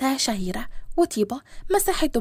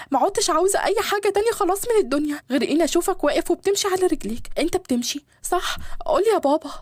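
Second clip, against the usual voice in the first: tearful joy; 2 semitones higher, faster than usual. Acted. Daughter seeing her father standing on his feet, tearful and overjoyed. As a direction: pour it out as if moved to tears. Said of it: "جريت طيبة عليه وفضلت تعيط".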